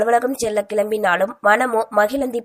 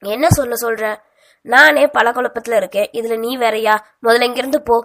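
irritated; 4 dB louder than usual. Acted. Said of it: "எரிச்சலுடன் கூறியவன்".

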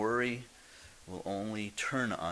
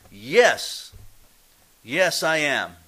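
positive answer; 4 semitones higher, 11 dB louder, much slower than usual. Pretend.

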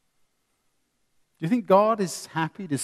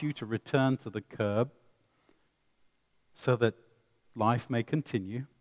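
calm and reasonable. Retold or imitated. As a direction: gently invite him back to the curb. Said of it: "I could say it like that".

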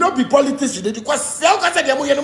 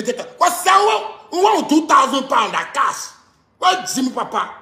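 raised, indignant outburst; angry rant; 2 semitones higher than usual. Real, not acted. Ranting at people who want money, angry. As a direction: lash out at them, pitch climbing.

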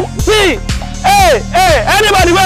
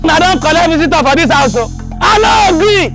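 angry. Acted. Creditor confronts household over contribution.

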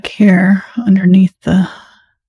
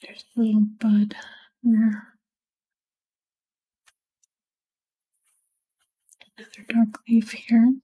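soft, absorbed near-whisper; hushed murmur while concentrating on the work; 2 semitones higher, 5 dB quieter than usual. Real, not acted. Painter talking through dark leaves as they work, whispering. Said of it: "Sorry, I'm whispering".

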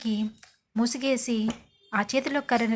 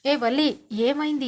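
louder, urgent call to wake her; 5 dB louder than usual. Acted. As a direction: call her name out loud, worried. Husband calls out to hurting wife.

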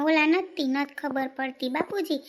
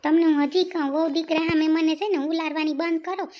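angry retort; 4 dB louder than usual. Acted. Wife snaps back at husband.

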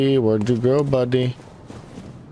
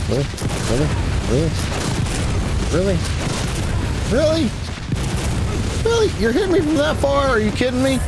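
disbelieving cry, much higher; incredulous gamer pitched way up; exasperated disbelief; 13 semitones higher, faster than usual. Real, not acted. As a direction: squeak out your outrage in a high voice. Enemy hits from far away.

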